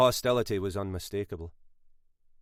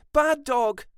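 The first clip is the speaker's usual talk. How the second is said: high scolding shout, louder; woman screaming at her dog, louder; 6 dB louder than usual. A narrator's reading. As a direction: yell at the dog harder.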